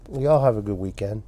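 talking around pipe stem; speaking through clenched teeth; pipe in mouth. Real, not acted. Seen 5: Pipe clamped in teeth throughout; reference frames show no pipe.

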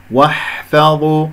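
واحفظوا with a light waw and ha; correct recitation. Shown as a demonstration. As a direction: slowly recite واحفظوا, thin until the heavy za. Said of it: "هي بعيدة عن الضاء".

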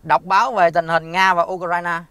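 slow, loud, carefully spoken command; clear voice command. Real, not acted. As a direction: speak it slowly and clearly so the assistant catches it. Dictating a command to Google Assistant.

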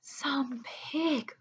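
soft, airy storybook whisper. A narrator's reading. Zuckerman echoes Lurvy before the web, whispered. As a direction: whisper it in hushed wonder. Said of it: "whispered Mister Zuckerman".

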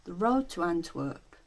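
rhythmic spoken-word poem reading; poetry recital. Acted. Reading a rave poem to channel viewers, rhythmic recital. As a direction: perform it as verse, leaning on the rhymes.

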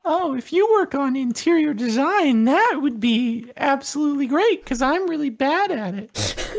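lightly affected character voice; peculiar put-on voice. Players chat about interior design in character, peculiar put-on voice. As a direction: keep up a slightly odd assumed voice. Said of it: "Your voice sounds a little peculiar".

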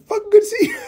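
high, different-voiced happy hello; excited greeting. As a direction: play the excited friend. He greets Boz back.

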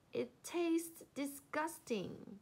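high, slow disgusted complaint. Acted. Monkey after gulping fire water, disgusted. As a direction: draw it out with distaste.

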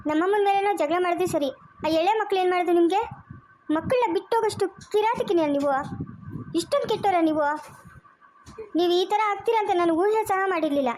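heated, accusing rebuke; angry scolding. Acted. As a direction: tear into her for abandoning the kids. Daughter scolding the woman who left. (ಕೋಪದಿಂದ ಗದರಿಸುವುದು)

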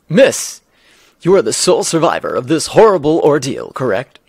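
loud, insistent interview delivery; TV reporter. Acted. Reporter questioning the sole survivor of the ordeal, loud and punchy. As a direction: press the witness like a reporter.

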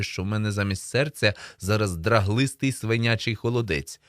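ordinary delivery, nothing marked

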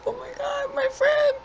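high frightened laughing squeal; scared squeal. Retold or imitated. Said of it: "I was like".

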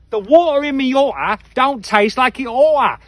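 playful Cockney twang on the whole line; slight Cockney accent. Shown as a demonstration. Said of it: "That's a slightly Cockney accent for you there".

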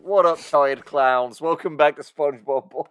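show host intro. Pretend. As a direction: greet the listeners like a hammy host. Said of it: "start every episode with".

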